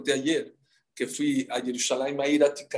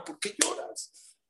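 gentle question; 10 dB quieter, slower than usual. Acted. Akiva asks friends why crying.

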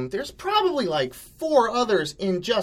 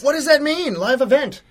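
mock confused customer; 11 semitones higher, 8 dB louder than usual.

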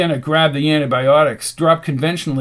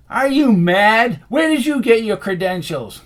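high, raised, incredulous voice; indignant challenge; 7 semitones higher, 4 dB louder than usual. A narrator's reading. Dice quarrels with Rasputin, indignant. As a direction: challenge him with loud disbelief. Quarrel over treating the wound.

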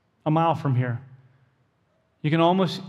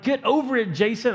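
scolding himself; 5 semitones higher than usual. Retold or imitated. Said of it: "That's me talking to myself".

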